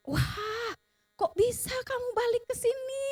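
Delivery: high-pitched, hushed wonder; amazed retelling. Retold or imitated. Retells amazement at dog's return. (takjub, suara tinggi tertahan)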